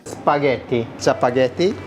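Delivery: spaghetti with crisp Italian t. Real, not acted. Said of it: "the way this man says spaghetti".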